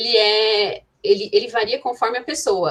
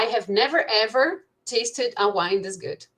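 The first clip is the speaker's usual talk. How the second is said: slow demo; slower than usual. Shown as a demonstration. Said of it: "Então, assim".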